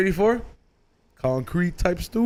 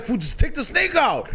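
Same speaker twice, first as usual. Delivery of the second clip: imagined self-quote; 5 semitones higher than usual. Retold or imitated. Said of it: "I would've been like".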